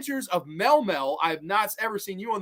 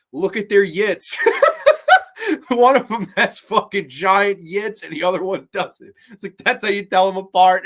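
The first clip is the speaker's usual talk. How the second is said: laughing punchline; 3 semitones higher, 7 dB louder than usual. Retold or imitated. Retelling the joke to his friend, laughing through it. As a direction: deliver the punchline cracking up. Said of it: "I was like".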